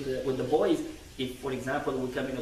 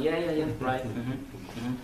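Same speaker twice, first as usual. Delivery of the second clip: mock absent-minded agreement, trailing lower; distracted nodding along; 4 semitones lower, slower than usual. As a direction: imitate someone half-listening. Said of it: "I'm looking somewhere else".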